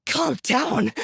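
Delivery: high, incredulous angry echo; angry disbelief. Acted. Sasha angrily echoing Ruby's demand to calm down. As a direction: throw the words back in anger. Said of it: "Sasha's face twisted in anger".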